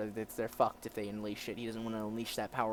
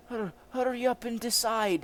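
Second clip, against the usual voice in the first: higher, stammered, impatient order; impatient demand; 11 semitones higher, 6 dB louder than usual. Acted. Officer to prisoners who must choose, impatient. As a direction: hurry them along.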